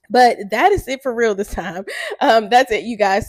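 chuckling through the sign-off; amused, laughing goodbye. Real, not acted. Laughing sign-off, ending for real.

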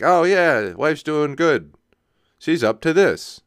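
high, upbeat mock small-talk reply; chirpy canned answer; mock breezy answer.

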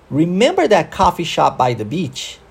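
connected English rhythm, "remember" peaking, "beach" lifted at the end; model rhythm and intonation. Shown as a demonstration. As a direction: question with stress on "remember", rising on "beach". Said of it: "uma entonação".

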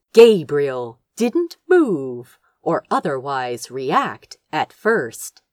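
plain reading voice

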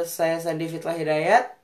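Fitlah with a light l where the r of Fitra should be; says l for r. Real, not acted. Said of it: "ngomong R-nya agak cadel".

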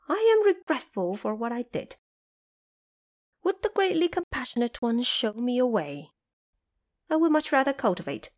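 high, lively trapped monkey king, grateful; eager Monkey King. A narrator's reading. Trapped Monkey King thanks the visiting Bodhisattva, high and eager.

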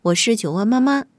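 cozy bedtime host voice; fireside storytelling. Acted. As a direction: talk gently to children at bedtime. Host greets children before story.

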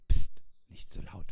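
hushing stage whisper; shush, then whisper it. A narrator's reading. Wolf shushing friends by the sleeping mouse, whispering. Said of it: "flüsterte Wolf".

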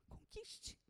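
barely voiced whisper; soft urging whisper. Real, not acted. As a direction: urge it in a whisper. Intimate exhortation.

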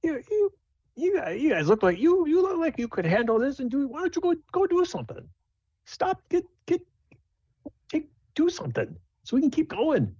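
very high, fast, flustered pleading; panicky passenger voice. Acted. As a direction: squeak it out, rushing and stumbling. Nervous passenger pleads with party.

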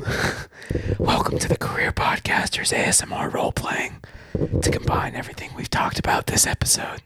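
whispered asmr role play. Pretend. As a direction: whisper it close to the mic. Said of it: "we're just gonna whisper".

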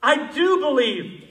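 high, loud, slow cry; father screaming his faith. Shown as a demonstration. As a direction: shout it from the gut. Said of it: "croak or scream or call out or shriek".

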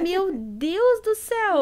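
high, slow exclamation of exasperation; exasperated exclamation. Retold or imitated. Mother recalling worry over her wandering son, exasperated. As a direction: draw it out in retold exasperation.

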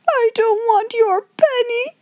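high, slow, whining refusal; child's sob. A narrator's reading. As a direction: bawl it like an upset little girl. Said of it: "sobbed Lottie".

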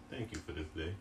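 soft, calm life-coach voice; gentle self-help guru; mock motivational coach. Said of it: "Sound like a life coach".

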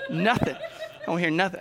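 chuckling, teasing the room; laughing tease. Real, not acted. Pastor teasing the tearful class through laughter. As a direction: laugh through a playful jab. Teasing congregation who teared up.

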